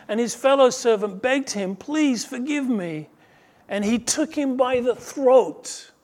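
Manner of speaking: high, loud storytelling sermon, building urgency; impassioned preaching. Acted. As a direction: preach the parable with mounting fervour. Retells the parable with rising force.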